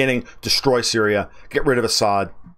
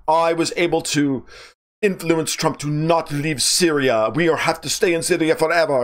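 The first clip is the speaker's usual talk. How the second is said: bad French accent; 6 semitones higher than usual. Mocking Macron's boast about Syria in a bad French accent. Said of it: "I do a very bad French accent".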